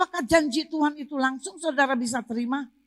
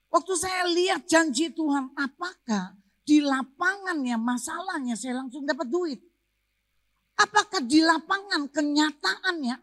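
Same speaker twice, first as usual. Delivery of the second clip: raised, insistent preacher's delivery; emphatic preaching; 8 semitones higher than usual. Real, not acted. Preacher contrasts faith with reality for the congregation, emphatic preaching.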